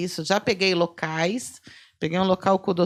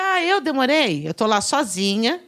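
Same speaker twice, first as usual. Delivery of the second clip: irritated retort; 4 semitones higher, 5 dB louder than usual. Retold or imitated. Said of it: "Eu falei".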